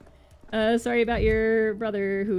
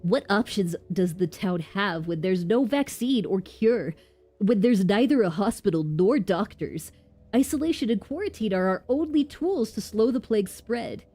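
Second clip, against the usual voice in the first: Birdly voice. Acted. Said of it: "go harder into the Birdly voice".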